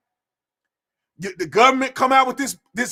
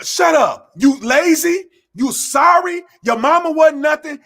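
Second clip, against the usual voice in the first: angry yell; 4 semitones higher, slower than usual. Real, not acted. Telling off complainers, an angry shout. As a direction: bark it at them. Scolding complainers after mock.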